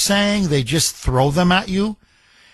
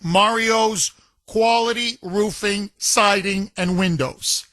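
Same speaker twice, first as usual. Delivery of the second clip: measured announcer delivery; sponsor read; 2 semitones higher than usual. Real, not acted. Host introduces the sponsored poll question, announcer style.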